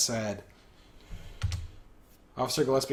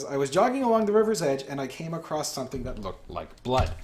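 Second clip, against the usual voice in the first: excited voice; 3 semitones higher than usual. Acted. Jogger telling an officer what she found, mildly excited. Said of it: "in an excited voice".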